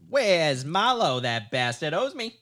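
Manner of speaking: put-on slow, loud old-timey gangster; old-timey tough guy. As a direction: growl it like a thirties hood. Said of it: "you wanted an old timey".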